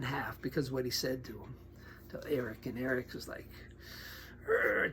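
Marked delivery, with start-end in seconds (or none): 4.5-4.9 high trembling growl of rage. Retold or imitated. Friend imitating biker who lost his temper, trembling growl. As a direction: imitate a man shaking with anger.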